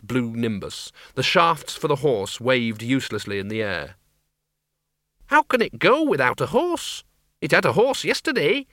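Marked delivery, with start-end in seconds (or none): 5.3-8.7 put-on high, alarmed old woman voice. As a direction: ask high and bewildered. Miss Flitworth alarmed.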